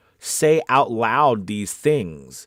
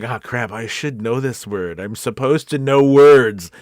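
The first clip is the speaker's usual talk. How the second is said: slow self-scolding, building louder; hammed-up, drawn-out frustration; mock exasperation; 5 dB louder, slower than usual. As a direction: act out frustration at yourself, leaning hard into the end. Acts out blanking on a word.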